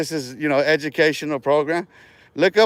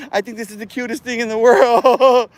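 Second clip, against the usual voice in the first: mocking through laughter; 4 semitones higher than usual. Real, not acted.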